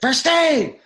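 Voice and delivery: high, loud mock coach tantrum from the bench; coach yelling. Coach yelling at player on the ice, hammed-up angry yell. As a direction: bark it like a furious coach. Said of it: "He'd be like".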